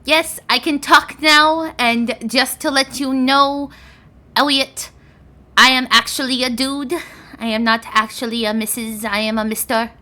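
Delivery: light pseudo dragon voice. Acted. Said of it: "seen this pseudo dragon talk".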